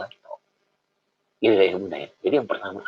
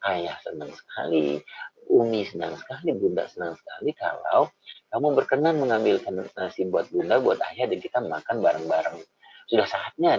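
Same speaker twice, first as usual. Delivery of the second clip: gentle encouragement; 4 semitones lower than usual. Retold or imitated. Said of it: "kita akan bilang sama anak kita".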